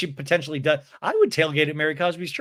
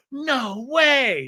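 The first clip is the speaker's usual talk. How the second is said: high mock amazement; gasp-like disbelief, pitched way up; Mary Cosby; 9 semitones higher than usual. Engaged onlooker sees the gift, in hammed-up high disbelief. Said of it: "Mary Cosby's face is like".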